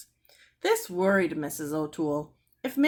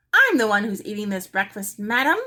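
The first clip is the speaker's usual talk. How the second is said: loud, rising to a very high squawk; a parrot sassing the mother; 5 semitones higher, 7 dB louder than usual. A narrator's reading. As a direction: squawk back indignantly. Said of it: "Penelope squawked".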